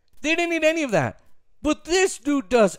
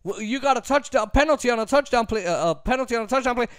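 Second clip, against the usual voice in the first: eager assistant; 4 semitones higher, faster than usual. Retold or imitated. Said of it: "these other guys coming up to him".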